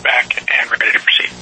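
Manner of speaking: signal cutting out over radio; words dropping out on a weak link; breaking up space radio. Real, not acted. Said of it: "might drop K U".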